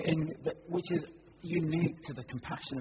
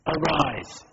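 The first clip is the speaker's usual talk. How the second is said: much louder, commanding call; 10 dB louder, slower than usual. A narrator's reading. Jesus commands the young man in the casket, loudly. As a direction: call the dead man up with full authority. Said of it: "in a loud voice".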